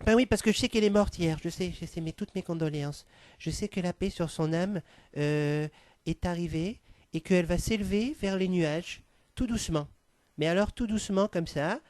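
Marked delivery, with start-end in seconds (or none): 1.4-11.8 mock tender consolation. Mock solemn condolences, hushed.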